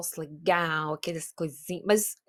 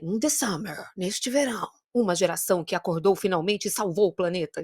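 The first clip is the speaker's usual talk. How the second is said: movie trailer voice. Pretend. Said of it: "imagina, assim, uma narração de filme".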